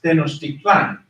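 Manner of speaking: Tenochtitlan said as in Spanish; Spanish pronunciation. Shown as a demonstration. Teacher showing the class the Spanish form, Spanish pronunciation of Tenochtitlan. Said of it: "Spanish, it's pronounced".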